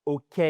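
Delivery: 'ok' short and level, ending in a pure 'è'; no glide, no lift on 'ok'; French-style ok. Shown as a demonstration. Teacher showing students what to avoid, French-sounding 'ok'. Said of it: "et c'est pas".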